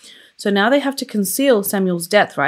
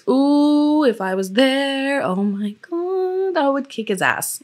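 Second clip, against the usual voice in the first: outraged outburst; 7 semitones higher, slower than usual. Real, not acted. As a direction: let the anger spill over, voice jumping up. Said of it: "it just makes me so mad".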